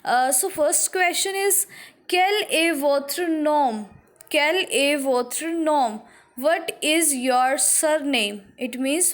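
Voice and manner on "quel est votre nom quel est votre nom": slow classroom reading. Shown as a demonstration. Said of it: "I am reading this question for you".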